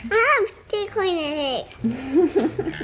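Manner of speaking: laughing through the words; giggling. Real, not acted. Child laughing while playing.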